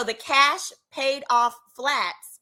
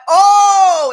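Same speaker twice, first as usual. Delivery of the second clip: impressed oh; 9 semitones higher, 14 dB louder than usual. Retold or imitated. Men impressed by lawyer answer.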